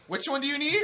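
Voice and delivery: very high, loud put-on old man; elderly Asian cashier. Old cashier asking the customer, high caricatured questioning voice. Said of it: "very elderly Asian man".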